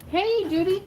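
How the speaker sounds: talking through a mouthful of cookie; mouth full. Real, not acted. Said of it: "Sorry, I'm eating a cookie".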